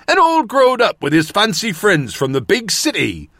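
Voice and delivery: imitating the high rustic northern watchman; old watchman. A narrator's reading. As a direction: relay it in the countryman's accent. Narrator quotes watchman's words in voice.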